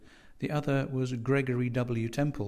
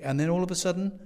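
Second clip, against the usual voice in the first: higher, building towards a revelation; excited recall; 7 semitones higher, 4 dB louder, faster than usual. A narrator's reading. Young man recalling news story to landlady, mildly excited. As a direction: press on with mounting excitement.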